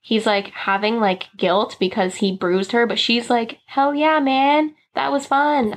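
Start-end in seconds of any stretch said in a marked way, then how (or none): 3.7-5.7 retold carefree delight, higher pitch; light, upbeat mock-enthusiasm; enthusiastic. Bella to her guilty husband after the honeymoon night, enthusiastic.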